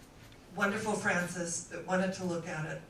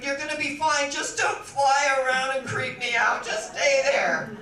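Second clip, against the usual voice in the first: loud, higher-pitched plea; mock nervous pleading; 4 semitones higher, 8 dB louder than usual. Frances to the owl in her room, acted nervous pleading. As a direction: keep a creature at bay, half-panicked.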